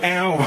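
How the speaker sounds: high mock "ow"; acted little cry of pain; stubbed-toe yelp. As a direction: yelp as if you hit your toe. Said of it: "when I hit my toe and I'm like".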